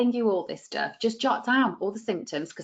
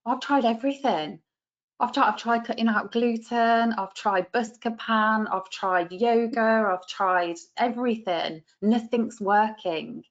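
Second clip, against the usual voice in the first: weary client; 2 semitones higher than usual. Retold or imitated. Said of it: "That's what they'll say".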